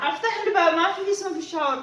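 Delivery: loud impatient command; angry order. Acted. Madam orders the maid out of the shower, loud and angry. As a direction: demand she open the door now.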